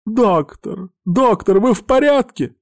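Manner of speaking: very high, anxious calling; alarmed concern. Acted. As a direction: call to him in high-pitched alarm. Nurse rushes to hurt doctor. (высоко, встревоженно)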